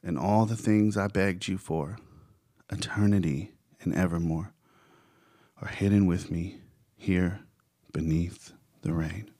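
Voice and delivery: solemn verse reading with pauses between phrases; poetic recitation. Acted. Recites the bridge of the song.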